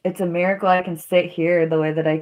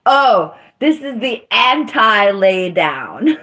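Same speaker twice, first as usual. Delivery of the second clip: laughing self-quote; 2 semitones higher, 5 dB louder, slower than usual. Retold or imitated. Laughing at her own joke.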